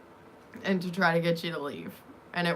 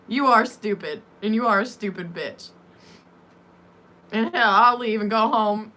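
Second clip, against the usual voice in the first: imitating Frisco in an uncertain accent; hint of an unplaceable accent, firm delivery; vague put-on accent; 2 semitones higher, 5 dB louder than usual. Babysitter lecturing her about the boy, vague put-on accent. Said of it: "I don't even know what accent".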